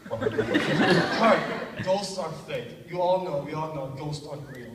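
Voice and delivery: loud flamboyant opening, easing off; Arispe, flamboyant. Retold or imitated. Roommate insisting ghosts are fake, lightly flamboyant. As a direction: insist with a drawn-out, mock flamboyant flourish. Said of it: "I don't know why he's a flamboyant".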